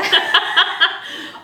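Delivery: shrieking laugh; loud high laugh. Real, not acted. Burst of laughter.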